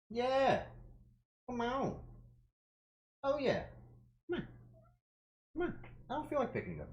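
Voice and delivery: high cooing to cat. Real, not acted. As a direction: coax the kitty sweetly, high. Coaxing the cat over.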